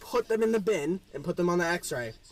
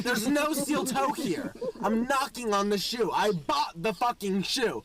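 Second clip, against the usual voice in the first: higher-pitched frustrated protest; acted indignant insistence; exasperated insisting; 4 semitones higher than usual. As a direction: plead the case, at wit's end. Acted argument with security guard.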